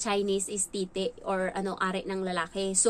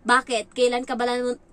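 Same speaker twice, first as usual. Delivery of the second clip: much louder, indignant comeback; sharp retort; 3 semitones higher, 6 dB louder than usual. Retold or imitated. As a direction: fire back at the child, annoyed. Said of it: "Ginanon ko talaga siya".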